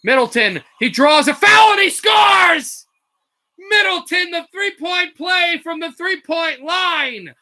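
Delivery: big play-by-play shout; excited shout. Real, not acted. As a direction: erupt as the shot falls. And-one score called live.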